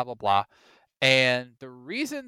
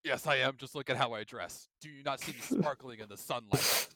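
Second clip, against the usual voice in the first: sparkly vampire; 2 semitones lower, 5 dB quieter than usual. Retold or imitated. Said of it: "Different vampire".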